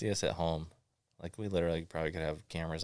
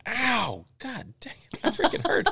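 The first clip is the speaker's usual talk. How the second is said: high, loud mock yelp of pain; dad howling at a snowball to the chest; 6 dB louder than usual. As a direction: play the hurt dad, hit in the chest. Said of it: "and he was like".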